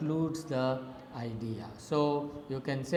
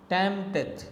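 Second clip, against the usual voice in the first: TEMPteth, first syllable punched high; stress on first syllable; 4 semitones higher than usual. Shown as a demonstration. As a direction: hit the TEMP of Tempteth. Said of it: "in which the first one is stressed".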